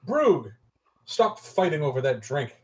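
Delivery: stern, firm order; stern command. Acted. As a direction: sternly call out the names. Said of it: "looking sternly and go".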